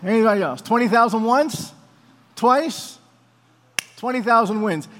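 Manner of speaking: mock auctioneer closing the sale; light auctioneer call, going once, twice. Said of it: "I feel like an auctioneer".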